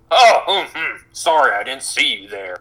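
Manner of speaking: put-on old man apology. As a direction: mumble sorry like a startled grandpa. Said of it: "bump into you and go".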